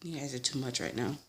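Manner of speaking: hushed, exasperated whisper; breathy aside to the fleeing guests; retold whisper. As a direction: whisper it in mock despair. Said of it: "I was like".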